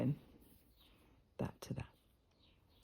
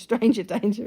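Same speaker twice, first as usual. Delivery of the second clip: laughing; 6 dB louder than usual. Pretend.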